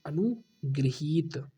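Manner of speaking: अनुगृहीत stretched out slowly; slow model word. Shown as a demonstration. Teacher slowly dictating the correct word, very slow. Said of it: "अनुगृहीत होता है".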